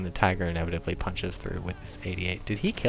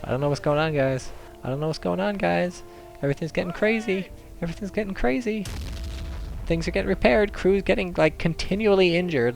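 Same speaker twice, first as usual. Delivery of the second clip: mounting mock panic; 8 semitones higher than usual. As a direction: voice climbing higher and higher. Mock panic commentary as game escalates.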